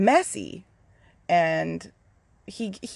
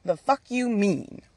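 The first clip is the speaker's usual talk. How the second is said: whiny protest; 5 semitones higher than usual. Retold or imitated. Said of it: "I was like".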